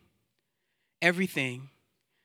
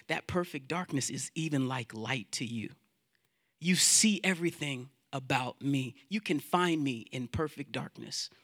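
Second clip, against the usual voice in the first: softer, sinking lower towards the end; hushed, intimate prayer; 3 semitones lower, 7 dB quieter than usual. Acted. Psalmist confiding in God that nowhere is hidden, hushed. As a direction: let the voice settle down in quiet wonder.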